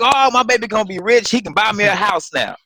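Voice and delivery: a hint of a delighted mother; mama's happy reaction. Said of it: "My mama was like".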